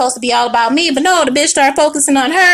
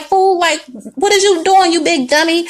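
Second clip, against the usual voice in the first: scolding ancestors; 5 semitones higher than usual. Retold or imitated. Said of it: "ancestors pulled up like".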